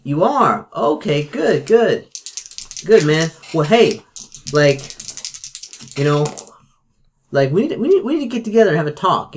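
high, fast, jittery caller; nervous Mickey. Acted. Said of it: "Does he sound nervous?".

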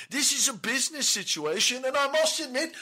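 rising pitch, getting fed up; frustrated. Acted. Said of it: "I'm getting a bit frustrated".

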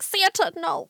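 anxious little guy. Retold or imitated. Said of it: "the anxious little guy that was like".

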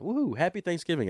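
high little cheer at everyday volume; light celebratory cheer. Pretend. Host wishes listeners happy Thanksgiving, light cheer. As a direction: give a modest, high-pitched woohoo.

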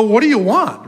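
lightly put-on New Jersey accent. Preacher voicing Jesus to two followers, light Jersey accent. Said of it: "I just project a Jersey accent into that".

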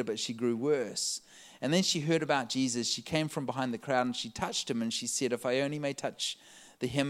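scripture reading. Acted. Reads the scripture.

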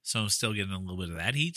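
talking around a sucker; candy stuck in the mouth. Real, not acted. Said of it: "sucker stuck in my mouth".

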